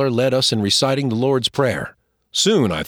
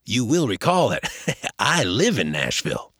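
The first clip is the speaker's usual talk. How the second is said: laughing. Acted. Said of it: "he said, laughing".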